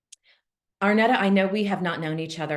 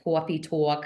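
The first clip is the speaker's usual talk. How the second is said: Judy's New York accent. Shown as a demonstration. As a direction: say coffee talk as awfee tawk, New York style. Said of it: "my New York accent".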